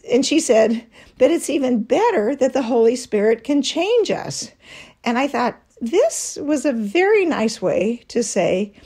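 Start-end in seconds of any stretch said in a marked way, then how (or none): 1.2-4.5 higher-pitched, mildly sweet correction; kindly, tactful imitation of a friend; sweetly. Friend telling husband the Spirit can change us, sweetly. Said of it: "very sweetly said".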